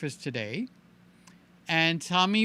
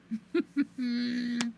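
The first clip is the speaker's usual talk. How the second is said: closed-mouth chuckle; 4 semitones higher, 7 dB quieter than usual. Real, not acted. Laughs after teasing Norm.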